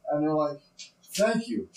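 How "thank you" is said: high-pitched thanks from a dwarf; grateful dwarf. Acted. Rescued dwarf thanking the party, high grateful voice. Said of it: "two of the dwarfs come walking back up".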